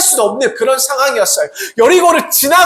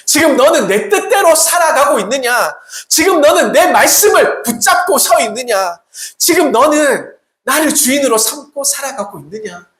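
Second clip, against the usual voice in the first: challenging questions; 5 semitones higher than usual. Acted. Voices God questioning the congregation.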